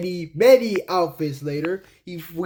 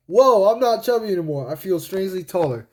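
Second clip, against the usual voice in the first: higher, mildly amazed cartoon voice; Sonic; 4 semitones higher, 3 dB louder than usual. Sonic noticing his body change, lightly voiced amazement. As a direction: marvel lightly at your own body. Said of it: "he goes like".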